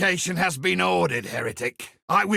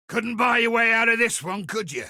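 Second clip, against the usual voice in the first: taunting shout; 4 semitones higher, faster than usual. Acted. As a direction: gloat over the beaten enemy. Taunting a defeated boss.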